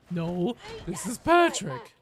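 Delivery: lightly put-on slow, dopey voice; cartoon phone-joke quote. Streamer quoting a cartoon gag to chat, slow put-on voice.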